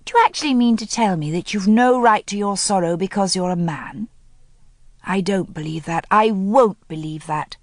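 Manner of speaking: mild anger, slowing on the last line; angry challenge. Acted. Helen angrily challenging Tommy's stiff upper lip. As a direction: challenge him, rising anger. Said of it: "anger return in a rush".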